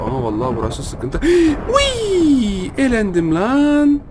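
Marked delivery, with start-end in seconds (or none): 1.2-2.7 sharp high gasp and cry; surprised gasp. Real, not acted. Sudden elimination in game. 2.8-4.0 slow disbelief. Real, not acted. Just got eliminated.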